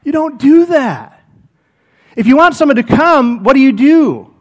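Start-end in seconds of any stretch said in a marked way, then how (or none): 0.0-1.2 slow, higher, firm warning; stern missionary. Retold or imitated. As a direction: correct the visitor firmly. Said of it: "one of the missionaries comes up and like".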